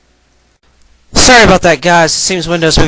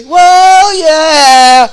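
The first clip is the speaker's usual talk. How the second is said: much higher, loud whoa yeah; real thrilled cry over the music; excited whoa; 9 semitones higher, 11 dB louder than usual. Real, not acted. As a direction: let it burst out with delight. Reacting to the song.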